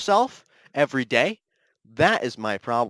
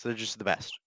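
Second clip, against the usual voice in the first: whisper; 4 semitones lower, 11 dB quieter than usual. Acted. Whisper after fading repeats.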